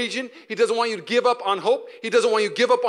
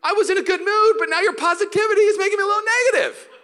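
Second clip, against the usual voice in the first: mock grumpy reply; 12 semitones higher, 5 dB louder than usual. Grumpy reply to positive friend.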